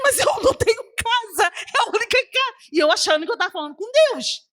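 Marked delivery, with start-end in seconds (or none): 0.0-2.5 high, anguished pleading in imitation; retold distressed protest. Woman answering the enemy about her house, retold distressed protest. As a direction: protest helplessly in a raised pitch.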